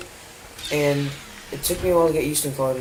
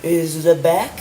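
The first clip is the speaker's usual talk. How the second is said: talking through a yawn; words stretched by a yawn; 5 semitones higher, 3 dB louder than usual. Real, not acted. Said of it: "Sorry, I'm yawning".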